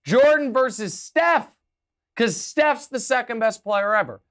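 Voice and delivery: hammed-up gloating commentator; mock gleeful pundit. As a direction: ham up a smug analyst tossing a curveball. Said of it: "He was like".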